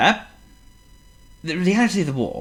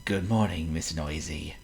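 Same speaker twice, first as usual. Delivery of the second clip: calm greeting; 5 semitones lower, 8 dB quieter than usual. Acted. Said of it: "without a glimmer of annoyance".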